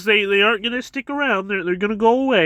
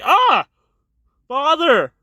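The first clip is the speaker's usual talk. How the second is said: much higher, louder hammed-up anguished yell; anguished cry; 7 semitones higher, 3 dB louder, slower than usual. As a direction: cry out as if your father just fell. Jonathan sees father stabbed.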